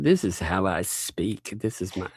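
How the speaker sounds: a touch of bad Irish accent; put-on accent. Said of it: "I swear, this is my accent".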